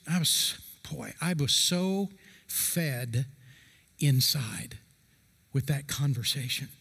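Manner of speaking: real emotion, words sinking to a hushed near-whisper; fighting back tears mid-sentence; choked up. Real, not acted. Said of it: "I'm getting emotional here".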